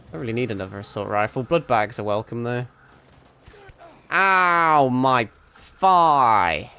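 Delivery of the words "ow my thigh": loud sudden cry of pain; real startled ouch; pained yelp. Real, not acted. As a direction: yelp as the shot lands. Hit in a shooter game.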